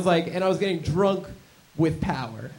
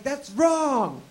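scolding; 10 semitones higher, 4 dB louder than usual. Retold or imitated. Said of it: "She's like".

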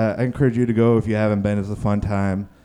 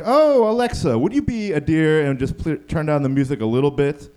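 polite sweetness; 2 semitones higher than usual. Retold or imitated. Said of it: "Day one, you're like".

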